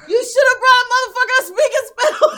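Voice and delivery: laughing shout; cracking up mid-sentence. Real, not acted. Laughing while mocking Santa.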